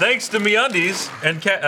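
slow, drawn-out pirate read. Acted. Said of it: "you sounded like a pirate during that".

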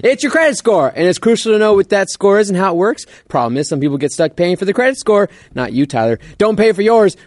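upbeat sponsor read. Acted. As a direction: read it like a podcast ad. Reads sponsor ad.

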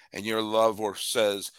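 ordinary talk

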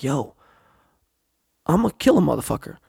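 fast, hushed inner threat; thinking it with grim glee; inner menace. Retold or imitated. His thoughts as he hears intruders, quick and menacing. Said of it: "I'm thinking like".

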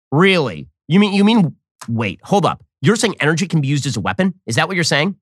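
sarcastic disbelief. Real, not acted. Mocking the press secretary.

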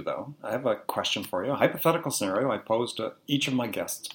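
hoarse, strained, fading voice; a tired voice, nearly gone; voice giving out. Real, not acted. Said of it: "I'm losing my voice here".

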